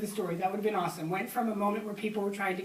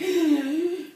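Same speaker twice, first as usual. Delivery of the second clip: high, loud gasp of tightness; demonstrated panicked gasp; 7 semitones higher, 7 dB louder than usual. Shown as a demonstration. Speaker showing listeners how panic feels, sharp gasp. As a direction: gasp as if your chest constricts. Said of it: "Have you ever felt that in your body?".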